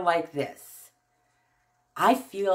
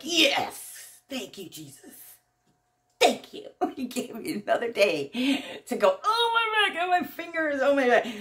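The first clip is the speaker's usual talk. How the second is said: morning joy; 5 semitones higher than usual. Retold or imitated. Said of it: "I wake up in the morning and I'm like".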